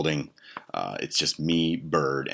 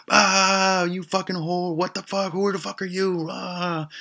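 very high-pitched screamed outrage; imitated screaming; 5 dB louder, slower than usual. Screaming at the stranger in the bedroom, imitated shrieking. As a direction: shriek it like a shocked mock victim. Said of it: "Boom, the screaming starts".

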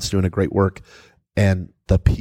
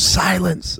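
commanding silence; 9 semitones higher than usual. Retold or imitated. Truett Cathy silencing the boardroom, sharp and high. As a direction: cut the room off with one word. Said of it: "And he goes".

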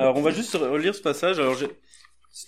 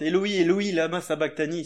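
higher, louder anguished cry; 3 semitones higher, 4 dB louder than usual. Acted. Jesus on the cross crying to God, loud anguished cry. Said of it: "s'écria d'une voix forte".

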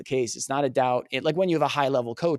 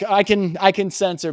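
excited aside; 6 semitones higher, 6 dB louder than usual. Real, not acted. Excited laughing aside on cursing.

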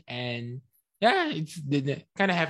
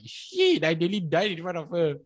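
panicked realization; 2 semitones higher than usual. Retold or imitated. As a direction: blurt it out as the danger sinks in. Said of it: "I was like".

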